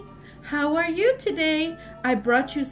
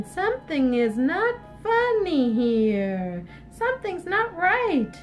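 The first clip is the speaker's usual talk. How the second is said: suspicious pondering; slower than usual. Acted. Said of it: "Little Red Riding Hood thought".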